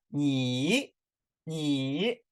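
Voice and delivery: 你 drawn out, dipping down and then rising; third tone. Shown as a demonstration. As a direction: say 你 with a full down-and-up third tone. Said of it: "third tone，yes，right".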